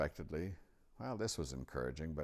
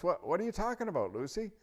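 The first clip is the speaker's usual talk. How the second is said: put-on high, quick, louder grumpy boy; 6 dB louder, faster than usual. A narrator's reading. Edmund woken by Lucy with her story, grumpy. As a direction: rattle it out crossly, pitched way up. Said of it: "he said in a grumpy voice".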